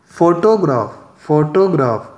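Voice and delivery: फोटोग्राफ as FO-to-graf; फोटोग्राफ with the weight on the opening syllable; stress on first syllable. Shown as a demonstration. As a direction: hit FO in फोटोग्राफ, keep the rest even. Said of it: "मैंने फो पर stress किया".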